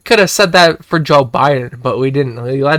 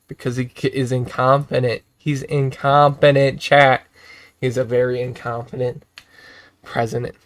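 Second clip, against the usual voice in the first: muttered aside; 4 semitones lower, 7 dB quieter than usual. Real, not acted. Quiet aside after the rant.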